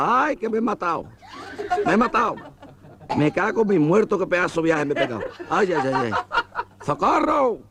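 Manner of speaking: high-pitched mock yells of a hurt man; crying out. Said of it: "Y el gacho pegando gritos".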